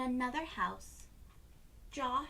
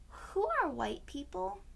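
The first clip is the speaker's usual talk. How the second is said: higher, lightly voiced young girl asking; a curious little girl's question, pitched up; child voice; 8 semitones higher than usual. A narrator's reading. Emma asking her father, in a light higher child voice.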